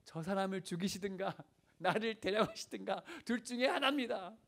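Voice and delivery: high, loud protest to God; acted-out exasperated pleading, rising in pitch and force; imitated desperate prayer. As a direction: cry out an ultimatum in prayer, hammed up for listeners. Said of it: "이렇게 기도했대".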